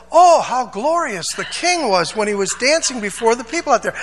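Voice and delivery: genuinely admiring, lightly voiced; sincere praise. Shown as a demonstration. Preacher shows an honest, admiring way to say it. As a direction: say it like you truly admire him. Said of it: "if she would have said it in this tone of voice".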